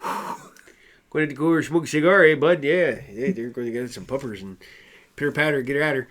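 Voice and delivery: playful mock Canadian banter; put-on Canadian small-town chatter; Canadian accent. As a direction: riff like a Canadian hick. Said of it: "Canadian accent".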